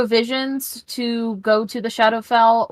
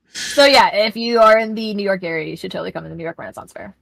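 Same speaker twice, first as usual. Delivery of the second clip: put-on New York accent; faster than usual. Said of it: "every time I talk like this".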